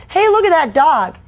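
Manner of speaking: put-on eager kid calling to his friend; excited kid. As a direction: call out like a kid spotting a dog. Kid spots dog at recess.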